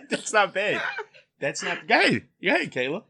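talking through laughter; laughing. Real, not acted. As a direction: laugh while you say it.

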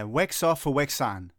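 saying wax off, wax on backwards; wrong order. Acted. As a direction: wax on and off mixed up. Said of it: "It's wax on, wax off".

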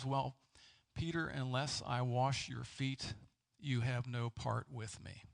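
slow, a touch of gentle calm; gently and calmly. Retold or imitated. Jesus gently answers a protesting Peter, slow and calm. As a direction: ease Peter's fears, unhurried and mild. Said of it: "very gently and calmly, he says".

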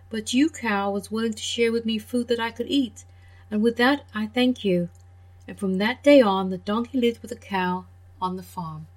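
put-on gentle storyteller voice for kids; children's story reading. A narrator's reading. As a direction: read it like a bedtime tale. Reads fairy tale to children.

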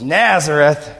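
a hint of a grumpy old skeptic; sour, dismissive Nazareth; sour scoff. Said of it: "one of those guys with their arm crossed with that sour face".

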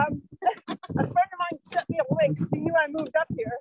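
rowing hard, short of breath. Real, not acted. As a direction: talk between breaths while rowing. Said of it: "I'm not gonna be as eloquent while I'm trying to breathe".

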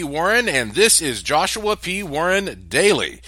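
show host intro. Acted.

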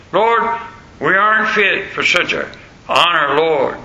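preacher humbly crying to God, mildly fervent; mock fervent cry. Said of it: "cried the preacher".

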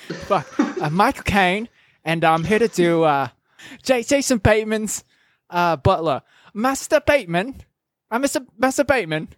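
a light, hammed-up Cockney Michael Caine; lightly put-on English butler voice; Michael Caine impression. Podcast host doing Michael Caine for his co-host, lightly accented. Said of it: "my Michael Caine impression".

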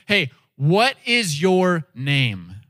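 slow, deliberate asking; bold question. Retold or imitated. Moses interrupting God to ask his name, bold and deliberate. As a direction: stop and ask it boldly, drawn out. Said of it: "stops the conversation and says".

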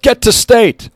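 high, loud group shout; team yell. A narrator's reading. Boys answering their coach, loud high yell. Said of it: "The boys all yelled".

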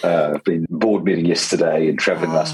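hoarse, worn-out croaky voice; talking through a croaky throat. Real, not acted. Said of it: "croaky voice".

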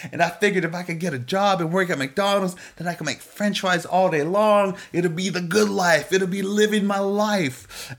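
put-on eager little boy. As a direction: play the kid gushing about his dream. Little boy voiced in story.

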